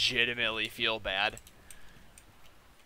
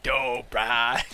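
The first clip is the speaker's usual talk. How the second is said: hyped approval; 6 dB louder than usual. Retold or imitated. Retold approval before a fist bump.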